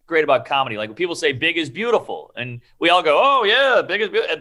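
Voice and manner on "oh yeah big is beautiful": high-pitched overdone "oh, yeah"; mock agreement. Everyone politely going along with a slogan, mock agreement. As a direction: play the eager, agreeable crowd.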